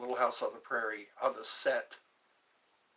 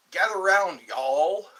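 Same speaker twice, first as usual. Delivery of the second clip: loud call to the room; 4 semitones higher, 10 dB louder, slower than usual. Acted. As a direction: call everyone in loudly. Calling the chat to gather.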